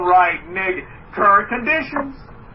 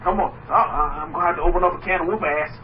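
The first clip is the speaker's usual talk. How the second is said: Water Boy impression; 2 semitones lower, faster than usual. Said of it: "that's what Water Boy says".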